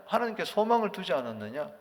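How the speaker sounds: 소망을 lifted in a light sneering rise; mock him gently over 소망을; slightly mocking. Eliphaz taunting Job about his hope, mildly mocking. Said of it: "약간 비웃음조로".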